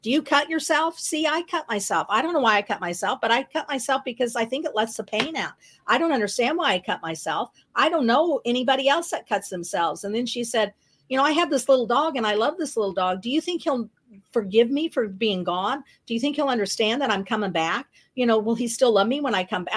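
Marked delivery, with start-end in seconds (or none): 0.0-10.0 rapid-fire chatter. Retold or imitated. Cellmate confiding in her new roommate, rapid-fire chatter. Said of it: "she's just talking a mile a minute". 11.1-19.8 rapid-fire chatter. Retold or imitated. Cellmate asking roommate about her little dog, rapid-fire chatter. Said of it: "she's just talking a mile a minute".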